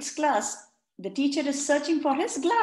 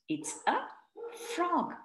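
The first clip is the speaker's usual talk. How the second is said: whisper; 6 semitones higher, 5 dB quieter than usual. Shown as a demonstration. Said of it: "whisper before reveal".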